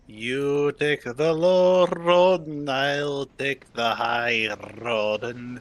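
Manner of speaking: put-on slow, half-slipped Scottish accent, sung-out road lines; a hint of Scottish accent, slow and drawn out. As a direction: ease into a light Scottish accent, taking your time. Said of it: "why are you going Russian?".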